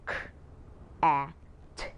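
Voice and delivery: k, a, t said as separate sounds; sounding out words. Shown as a demonstration. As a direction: split cat into three sounds. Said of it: "The ones I did earlier".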